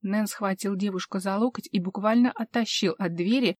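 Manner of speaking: ordinary delivery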